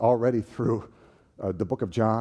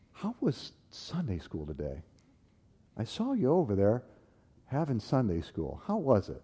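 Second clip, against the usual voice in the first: mocking taunt; 3 dB quieter than usual. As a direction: needle him up close. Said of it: "Gets right in my face".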